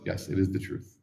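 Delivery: whispered calm yes; hushed gentle reply; soft whisper. Retold or imitated. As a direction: answer softly and humbly. Prophet answering gently.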